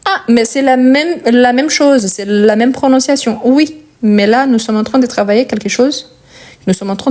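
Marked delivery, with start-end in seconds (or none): 0.0-3.4 lightly voiced student protest, a bit higher; objecting learner. Teacher mimics students objecting to the spelling rule, lightly voiced protest. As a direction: imitate a learner objecting it's all the same. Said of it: "parce que vous dites".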